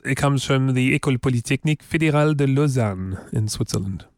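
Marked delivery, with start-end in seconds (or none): 1.0-3.2 French-accented institution name; French pronunciation. Shown as a demonstration. Host showing off French to co-host, French pronunciation. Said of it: "pronounce French".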